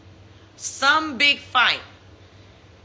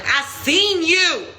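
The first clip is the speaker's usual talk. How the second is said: slow insistent I-saw-you, pitched up; confronting him; 6 semitones higher, slower than usual. Retold or imitated. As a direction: spell it out to the cheater slowly. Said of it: "And I was like".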